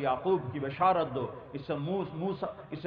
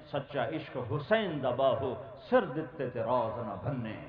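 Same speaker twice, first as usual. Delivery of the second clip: measured Sufi verse, each line lifted and let fall; poem recitation. Acted. Preacher reciting Bahu's verse to the gathering, devotional recital. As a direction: chant the couplets of Bahu with devotion.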